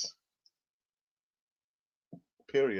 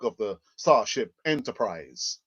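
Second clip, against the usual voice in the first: mock Captain Kirk; slower than usual. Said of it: "I'm not sure why I'm talking like this".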